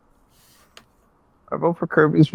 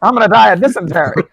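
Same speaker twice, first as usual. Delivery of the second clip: Taft voice; 8 semitones higher, 5 dB louder than usual. Acted. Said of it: "Taft sounded like Burt Reynolds".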